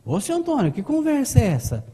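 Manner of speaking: hint of a mimicked housemaid; unpolished maid. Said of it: "ela era chucra no telefone".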